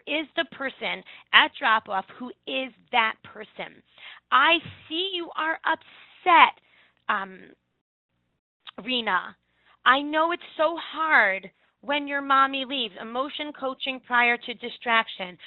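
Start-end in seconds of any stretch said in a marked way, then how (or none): 4.3-13.0 put-on slow, soothing comfort for a crying child; gentle teacher voice. Shown as a demonstration. Teacher soothing a child at drop-off, slow and gentle. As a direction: soften and slow down, coaxing.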